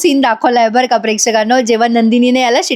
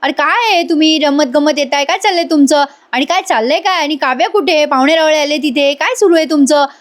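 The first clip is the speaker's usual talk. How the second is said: put-on higher, scolding the kids; a mild retold scolding; angry father; 4 semitones higher than usual. Vikram scolding the sons for coming late, mildly angry. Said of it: "विक्रम आता चिडतात".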